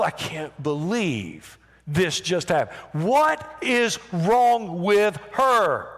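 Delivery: slow, outraged disbelief; indignant muttering. Acted. Onlookers grumbling to one another about the woman, indignant and slow. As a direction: let the outrage drag out each word. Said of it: "That's what they were saying".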